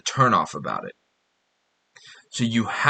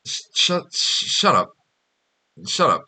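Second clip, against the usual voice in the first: stammered then flat "shut up" tries; curt dismissive practice takes; trying out shut up; 3 semitones higher than usual. Shown as a demonstration. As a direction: search for the right curt "shut up". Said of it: "This is what we're doing".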